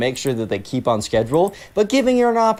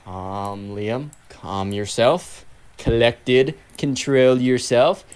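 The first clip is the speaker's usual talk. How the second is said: self-calming; 3 semitones lower, much slower than usual. Retold or imitated. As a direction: breathe and talk yourself down slowly. Liam talking himself down.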